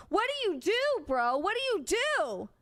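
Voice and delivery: high, swooping plea on each question; helpless exasperation. Real, not acted. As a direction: let DO soar up and fall, at a loss. Imagines being helpless near a killer.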